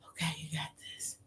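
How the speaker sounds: soft whispered self-encouragement; hushed, unvoiced you got this; whispered pep talk. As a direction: whisper to yourself to stay brave.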